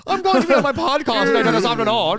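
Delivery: put-on high, loud Valley Girl voice; bubbly Valley Girl put-on. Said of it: "sounds like a Valley Girl".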